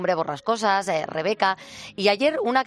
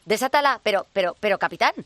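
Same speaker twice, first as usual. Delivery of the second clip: higher, eager bumbling first mate; fawning pirate sidekick voice; 6 semitones higher than usual. Acted. First mate obeys, confused.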